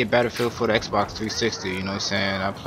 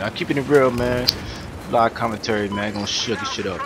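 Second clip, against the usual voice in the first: talking around a lit cigarette; cigarette in mouth; 2 semitones higher, 3 dB louder than usual. Real, not acted. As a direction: cigarette between the lips while talking. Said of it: "spark my cigarette up real quick".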